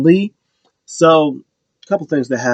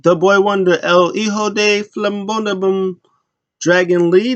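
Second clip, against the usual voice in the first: mock ring announcer intro; hammed-up ring announcer; 7 semitones higher than usual. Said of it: "announced him at Dragon Lee".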